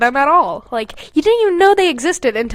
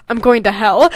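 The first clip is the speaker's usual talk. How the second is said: laughing read; 2 semitones lower, 3 dB louder than usual. Acted. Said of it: "giving a sad smile".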